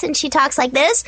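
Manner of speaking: put-on fast chatty little girl voice; rapid nonstop chatter. Shown as a demonstration. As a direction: rattle it off without a breath. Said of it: "I do Little Miss Chatterbox voice".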